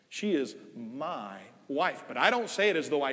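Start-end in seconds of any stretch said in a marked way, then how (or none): 0.1-2.0 slow, soft, fond She is my wife; affectionate. Shown as a demonstration. Husband speaking of his wife Nell, slow and tender. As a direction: linger on she with love. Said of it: "I say it with affection".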